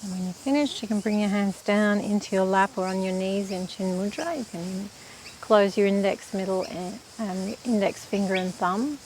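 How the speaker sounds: calm, even-toned meditation teacher; unhurried meditation instruction, leaving space to breathe; guided meditation. Real, not acted. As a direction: guide them gently through breath practice, with long pauses.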